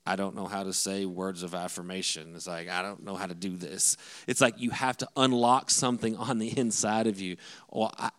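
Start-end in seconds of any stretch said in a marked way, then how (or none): 0.1-2.3 low, stiff mock panic; frozen stiff. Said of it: "you just rigor mortis". 2.7-4.0 low, softer and stiff; acting seized up at the task; frozen stiff. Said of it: "you just rigor mortis".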